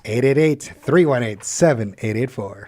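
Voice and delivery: lightly voiced radio host sign-on, barely shifted from his own voice; a mild take on a call-in host's cadence; Cy Kellett impression. Co-host doing his Cy Kellett impression for the stream, lightly voiced. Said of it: "get my Cy Kellett impression down".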